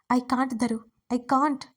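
a lightly voiced aching confession; sad plea. Suriya tells Dharani he suffers without her, sadly. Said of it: "అన్నాడు బాధగా".

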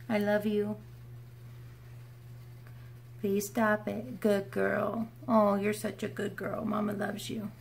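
mother cooing to her dog, tender. Real, not acted. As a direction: soothe the dog gently.

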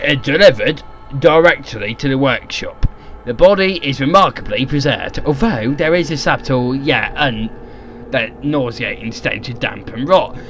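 measured, theatrical narration; dramatic journal reading. Acted. Reading the notes on the crate's body, in theatrical narration. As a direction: read it like a formal journal entry. Reads journal aloud in character.

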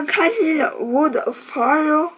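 slow, careful English name in a French accent. Real, not acted. Reading a candle's English name slowly in a French accent. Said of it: "Oui, mon accent est juste incroyable".

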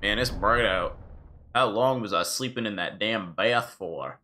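put-on slow drawl in Link's accent. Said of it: "that's the accent I'm giving, Link".

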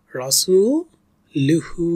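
রাসূলুহু slow, সূ held one alif; slow recited রাসূলুহু; one alif stretch. Shown as a demonstration. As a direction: draw out the সূ of রাসূলুহু. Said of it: "এক আলিফ টানতে হবে এখানে".

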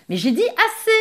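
high, loud furious shout; angry shout. Acted. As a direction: bark the order in a rage. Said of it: "cria le capitaine".

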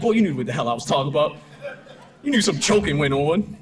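quick, laughing mock scolding. To his clever son, a fast laughing mock scolding. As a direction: scold him while cracking up.

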